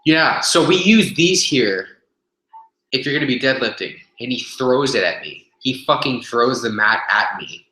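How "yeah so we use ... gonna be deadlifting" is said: gym guy explaining the mats, mock condescension; imitating the gym guy. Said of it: "he goes".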